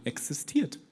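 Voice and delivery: measured, earnest Bible reading; scripture reading. Acted. Preacher reading First John to the church, solemn reading. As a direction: read the verse out to the congregation. Reads a Bible passage aloud.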